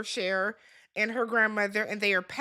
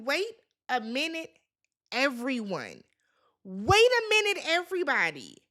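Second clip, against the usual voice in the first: exasperated interruption. Real, not acted. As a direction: halt the room in disbelief. Host interrupting the chaotic fight.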